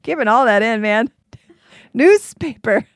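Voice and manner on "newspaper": Newspaper said slowly and carefully, each syllable clear; careful retry. Acted. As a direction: land Newspaper cleanly with a z sound. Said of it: "I can't say newspaper".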